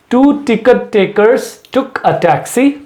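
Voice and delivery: very slow, T sounds punched out; slow tongue twister. Shown as a demonstration. Teacher slowly models a tongue twister for practice. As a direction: drag each word, hit every T. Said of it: "please ध्यान से सुने".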